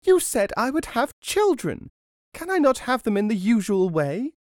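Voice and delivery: loud, very high protest; screeching. A narrator's reading. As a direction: screech your objection as the indignant wife. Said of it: "she screeched".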